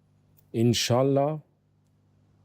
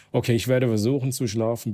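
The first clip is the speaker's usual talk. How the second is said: versuchen pushed a little louder; stress on versuchen; 4 dB louder, faster than usual. Acted. Reading a friend's message aloud, stress on versuchen. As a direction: lean on versuchen, doubtful you'll sleep. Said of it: "Betonung auf versuchen".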